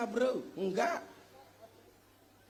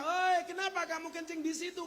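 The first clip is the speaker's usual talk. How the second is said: retold yell; 10 semitones higher than usual. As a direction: shout at him across the mosque. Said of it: "Umat waktu itu teriak".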